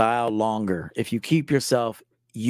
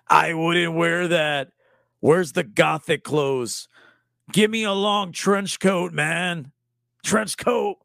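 mock grumpy viewer; 4 semitones higher, slower than usual. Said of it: "Zero Likes being all negative".

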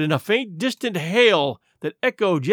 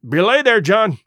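fearful warning; 2 semitones higher, 5 dB louder than usual. Acted. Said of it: "said Mary".

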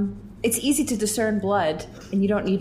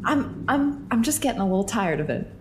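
annoyed; 4 semitones higher than usual. Acted. Annoyed character complaint.

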